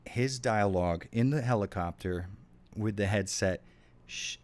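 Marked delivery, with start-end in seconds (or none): 4.1-4.4 put-on Jamaican accent. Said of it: "I can't do a Jamaican accent".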